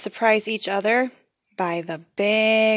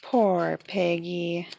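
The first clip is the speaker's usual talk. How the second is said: sad pity; slower than usual. Acted.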